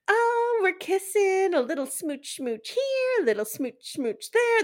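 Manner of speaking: high, cutesy imitation of her; mocking baby-girl talk. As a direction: swoop up high in an exaggerated girly parody. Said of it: "This is how this grown woman talks".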